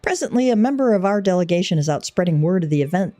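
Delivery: lightly voiced courtly envoy, measured; formal delegation head. Envoy greets adventurer about the festival, lightly formal. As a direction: read it as ceremonial, formal oratory. Reads the delegate's game dialogue.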